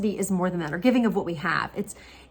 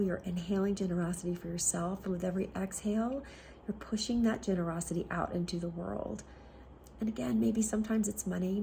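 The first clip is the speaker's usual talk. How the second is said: soft, settled closing of a meditation; guided meditation; 8 dB quieter than usual. Acted. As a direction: ease them out on a softened voice. Closes the meditation with breathing.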